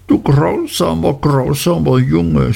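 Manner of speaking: the hurt little wife scolding her husband; high, childish Dora pleading; childlike young wife. A narrator's reading. Dora's voice voiced by reader.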